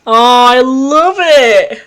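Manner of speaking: thrilled by the writing; raving. Real, not acted. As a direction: savour every word of praise. Raving after the episode.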